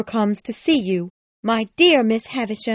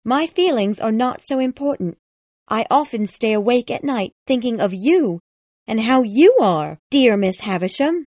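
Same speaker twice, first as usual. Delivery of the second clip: high-pitched, plaintive lament; sad; 11 semitones higher, 7 dB louder than usual. A narrator's reading. Lady answers Miss Havisham's question about her health, sad. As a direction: complain sadly in a raised lady's voice. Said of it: "said this lady sadly".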